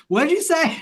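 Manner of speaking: high, bewildered mock question; teasing LA friend. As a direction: play the baffled Californian straining to understand. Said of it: "it's like".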